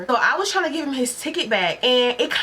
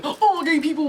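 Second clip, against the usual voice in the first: mock stereotype voice; 7 semitones higher than usual. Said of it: "that person that's like".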